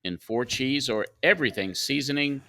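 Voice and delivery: polished radio ad read; sponsor read. Acted. Host moving the show into the Tim Hortons segment, ad read. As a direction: read it as a host's live sponsor spot. Reads a sponsor message on air.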